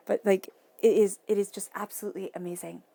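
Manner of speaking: bursts out loud, then rushes the rest; thrilled outburst, speeding up; excited burst. Real, not acted. Tarot reader to viewer, amazed by the spread, excited loud burst.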